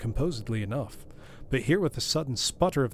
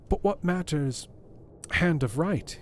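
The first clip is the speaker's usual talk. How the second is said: another voice; 6 semitones higher, slower than usual. A narrator's reading. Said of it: "with another voice".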